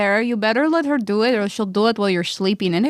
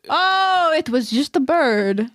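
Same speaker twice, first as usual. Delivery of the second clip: innocent; 3 semitones higher, slower than usual. Acted. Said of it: "I go".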